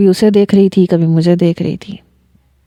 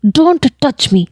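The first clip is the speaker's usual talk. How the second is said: angry snap; 6 semitones higher, much slower than usual. Acted. She pulls her hand away.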